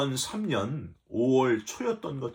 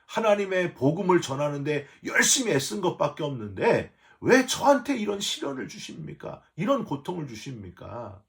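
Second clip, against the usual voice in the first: crying out to God. Retold or imitated. Pastor crying out in anger to God over the miscarriage, anguished. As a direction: demand answers from God, voice climbing. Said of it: "그렇게 하나님께 울부짖었습니다".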